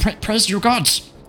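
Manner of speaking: very high, stammering fish-creature dying cry. Voicing a Kuoto struck by a crossbow bolt: voicing a dying Kuoto. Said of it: "The Kuoto looks up and goes".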